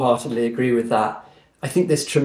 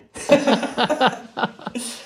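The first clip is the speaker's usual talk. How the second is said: laugh; 10 semitones higher than usual. Real, not acted. Laughs at her own joke.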